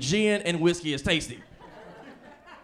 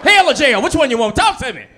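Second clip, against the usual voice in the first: loud, high shouting mom; hammed-up furious mom; mom yelling; 6 semitones higher, 6 dB louder than usual. Mom shouting clean curses at everyone, loud and high. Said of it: "she'd be like".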